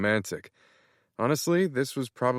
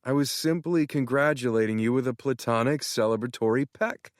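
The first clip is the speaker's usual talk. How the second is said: much higher, gushing excited friend; excited Tanner; 5 semitones higher than usual. Acted. Tanner thrilled, congratulating Matt on being in love. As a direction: gush as if he just found out.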